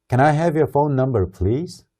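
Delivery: slow, clear question with please rising; teacher's slow model line; slow model reading. Shown as a demonstration. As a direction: spell it out slowly for the class. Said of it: "한번 따라서 읽어봅시다".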